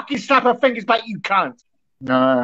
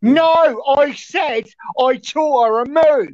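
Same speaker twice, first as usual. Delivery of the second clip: raised-pitch, drawn-out insistent denial; indignant correction; 3 semitones higher, much slower than usual. Real, not acted. Accused man correcting what he said, slow indignant insistence. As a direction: correct the accuser slowly and forcefully. Denies accusation in heated quarrel.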